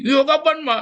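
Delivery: put-on high, loud whiny child's plea; lightly played whining child. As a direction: plead like a tearful kid. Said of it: "anakmu nangis kan".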